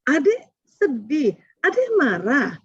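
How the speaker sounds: put-on calmly name what the child feels; gentle validating. Shown as a demonstration. Parent gently names a crying child's feelings, slowly. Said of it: "memulai kalimat kenapa".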